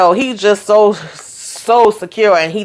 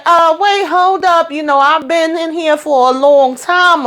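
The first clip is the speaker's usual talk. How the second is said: interrupting elder; 8 semitones higher than usual. Retold or imitated.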